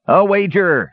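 high, mildly shouted exclamation. A narrator's reading. Dwarf accepting the brothers' wager, shouting. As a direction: seal the challenge with a high cry. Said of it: "shouted Dugan".

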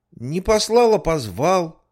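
put-on high, eager kid's voice; child voice. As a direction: answer like a bold little kid. Children answer the policeman. (детский голос)

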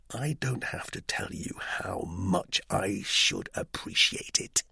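embarrassed near-whisper. Acted. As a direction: drop to a breathy hush. Major's embarrassed plea, trailing.

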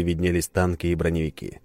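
usual speaking voice

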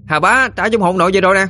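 high shouted call down to the dock; shouting loudly. Acted. Boy shouting down to his parents at the dock. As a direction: yell it down to the riverbank. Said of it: "mà la lớn".

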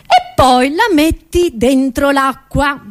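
high, emphatic comic lecture; mock-grand explanation. Comedian explains waste to the audience, mock-grand. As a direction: spell it out with showy relish.

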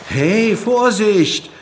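high, loud, slow warning shout. A narrator's reading. Alex shouts at the sailor as the rapier nears, loud and high. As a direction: shout out as the blade comes close. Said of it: "schrie Alex".

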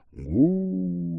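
one hollow booming "Гу" rolling across the valley; booming echo. A narrator's reading. The stone booms down the valley, hollow echo. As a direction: boom it out like a stone thudding into the valley. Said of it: "пошло по долине".

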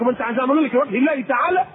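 mild sarcastic question. Retold or imitated. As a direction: sneer a little at the words لوجه الله تعالى. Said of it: "بسخريه كده". (سخرية خفيفة)

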